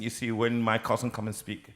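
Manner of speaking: hushed imitation of a Vincentian accent; soft Vincentian accent. Host imitating his cousin's speech, in a soft Vincentian accent. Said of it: "very soft in their, their language".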